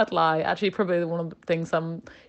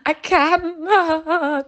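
retold crying; 11 semitones higher, 5 dB louder than usual.

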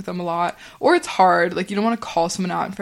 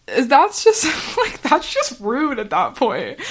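talking through real laughter, pitched up; laughing; 6 semitones higher, slower than usual. Real, not acted. Laughing at her own imitation of people mumbling her name. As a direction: crack up mid-sentence.

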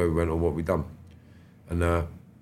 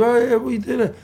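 higher, louder sarcastic interest; mock interest; 6 dB louder than usual. To his old attacker, a higher, louder, sarcastic feigned interest. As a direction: feign delight to draw him out.

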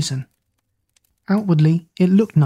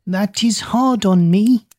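put-on old woman; 4 semitones higher, slower than usual. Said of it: "said the old woman".

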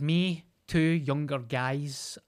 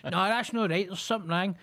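shrill panicky concern, hammed-up; mock fussing neighbour; 5 semitones higher than usual. Imitating the neighbour fretting at him on the phone, very high. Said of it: "neighbour voice continues".

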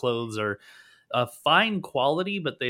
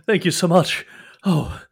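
sputtering thanks; 4 dB louder than usual. Acted. Freed captive thanks his rescuer, sputtering gratefully. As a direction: sputter out thanks after being ungagged. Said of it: "he then sputters".

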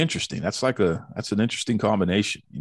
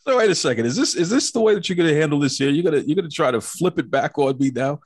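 mock outrage; 5 semitones higher, faster than usual. Real, not acted. Mock outrage at guest's comeback.

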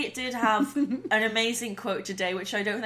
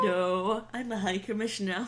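talking building; 4 dB quieter than usual. Pretend. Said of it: "Is that your Canadian accent".

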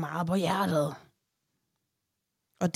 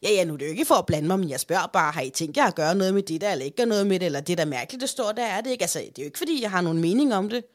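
imitating meddling mother-in-law; faster than usual. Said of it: "typen, der siger sådan her".

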